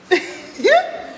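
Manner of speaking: high-pitched laughing squeal; sudden squeal. Real, not acted. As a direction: let out a short high squeal. Reacting to gifts on live stream. (petit cri aigu et rieur)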